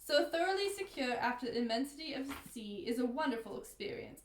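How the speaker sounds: put-on British accent drifting into Australian; Australian-sounding attempt at British; failed British accent. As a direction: read grandly in botched British, sliding Australian. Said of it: "I lost my British accent. I'm Australian".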